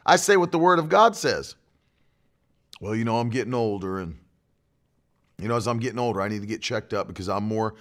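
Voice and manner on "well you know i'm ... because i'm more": low, soft, sinking mock of a worrier; mock resigned talk. Preacher mimicking talk about getting older, low resigned mumble. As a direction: imitate someone meekly accepting getting older, voice dropping away. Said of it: "And I don't talk like that".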